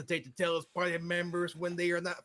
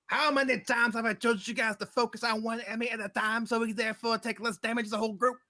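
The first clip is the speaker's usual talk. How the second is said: lightly voiced sergeant, pitched up; mild mock drill sergeant rant; scolding drill sergeant; 5 semitones higher than usual. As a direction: rattle off a reprimand to the squad. Acted drill sergeant scolding the party.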